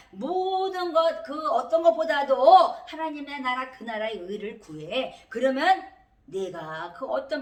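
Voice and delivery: loud, drawn-out preaching cry; emphatic exhortation. Retold or imitated. Preacher relays God's command to seek the kingdom, loud drawn-out exhortation. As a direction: swell up and stretch each phrase forcefully.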